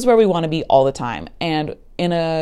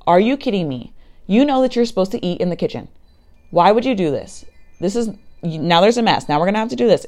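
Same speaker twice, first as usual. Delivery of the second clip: higher-pitched exasperated scolding, acted out; mock flipping your lid at a child; upset parent; 4 semitones higher than usual. Parent to daughter over spilled cereal, acted upset scolding. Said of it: "you're really upset and you flip your lid".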